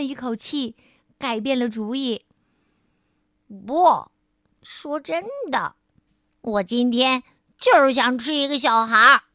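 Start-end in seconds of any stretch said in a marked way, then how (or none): 3.7-9.2 louder, stubborn insistence; child who won't give up the idea; firm refusal. Acted. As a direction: dig the heels in. Child refuses cake again.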